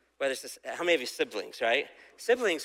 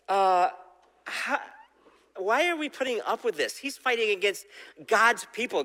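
higher pitched, pleading and dismayed; distraught young David; 5 semitones higher than usual. Retold or imitated. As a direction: ask in dismay, why are we allowing this. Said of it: "David was distraught".

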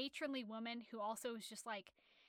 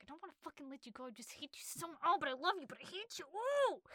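mock torn lover; 4 semitones higher, faster than usual. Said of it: "he's like".

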